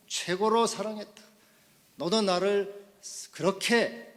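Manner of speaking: loud, high preaching, phrase by phrase; impassioned preaching. Acted. Preacher voicing Jesus asking for love in return, forceful preaching.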